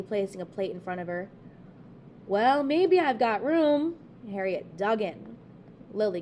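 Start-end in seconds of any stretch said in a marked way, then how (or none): 2.3-4.0 coy giving in. A narrator's reading. Reluctant guest giving in.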